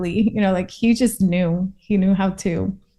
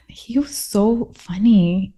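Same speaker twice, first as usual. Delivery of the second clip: whispered; slower than usual. Real, not acted. Remembering her funny brother, whispered. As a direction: breathe it out, almost a whisper.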